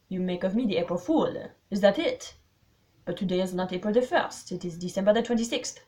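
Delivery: put-on pointed, precise French-accented reply; Poirot. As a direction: pick it apart in careful foreign English. Voices Poirot.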